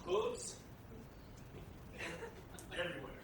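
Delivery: one word at a time, halting; staccato. Real, not acted. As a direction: drop each word separately, with pauses. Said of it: "one word at a time".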